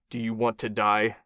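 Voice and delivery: grim, flat threatening question. Acted. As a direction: ask it coldly, without emotion. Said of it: "his voice grim and flat".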